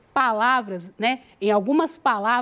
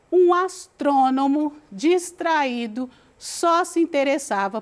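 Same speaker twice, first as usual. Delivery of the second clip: story reading. Acted. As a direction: read it out again clearly for students. Rereads fable, slower. (leitura pausada da fábula)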